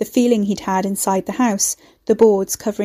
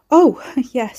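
embarrassed laugh; 4 semitones higher, 5 dB louder than usual. Acted. Guy caught off guard, laughs.

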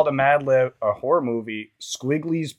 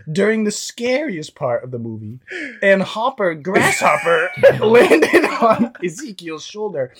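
lightly hammed-up horror storyteller, breaking into laughs; put-on story voice; 2 semitones higher than usual. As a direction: read a silly horror tale in a put-on voice. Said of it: "Do a voice".

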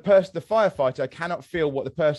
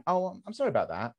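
offhand, higher-pitched token apology; flippant sympathy; 4 semitones higher, 4 dB quieter than usual. Acted. Son showing what flippant sympathy sounds like, flippant. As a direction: toss off a mock apology without real sympathy. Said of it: "flippant sympathy is someone going".

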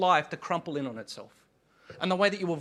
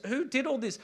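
God's challenge; 7 semitones higher than usual. Acted. God challenges listeners.

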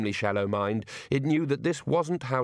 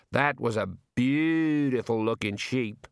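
wistful; slower than usual. Acted. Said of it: "said one of the shearers wistfully".

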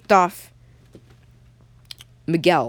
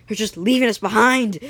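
raised, higher voice of the abandoned; desperate protest; 4 semitones higher, 4 dB louder than usual. Acted. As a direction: yell after those deserting you. Stranded boys yell after ship.

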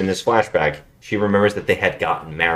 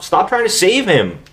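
higher-pitched mock pleading; retold plea, voice raised in pitch; imitated plea; 9 semitones higher than usual. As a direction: act out her urging him to stop. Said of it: "She's like".

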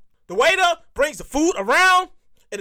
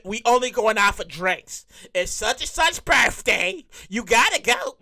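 coaxing friend; 6 semitones lower, slower than usual. Retold or imitated. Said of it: "it always starts off with".

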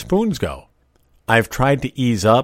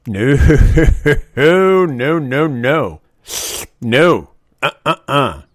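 loud, higher run of firm no's; emphatic no; 5 semitones higher, 7 dB louder, much slower than usual. Real, not acted. Forbidding slurped soup at the table, loud and emphatic. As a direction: shut it down hard.

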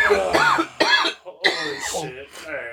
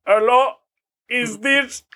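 higher-pitched mock South Asian phone scammer; South Asian scammer accent; 5 semitones higher, 3 dB louder than usual. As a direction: put on a scam caller's South Asian accent. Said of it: "motherfucker going".

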